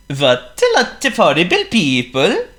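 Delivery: lightly voiced, shocked snowman; a hint of cheerful dismay. A narrator's reading. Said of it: "said Sven".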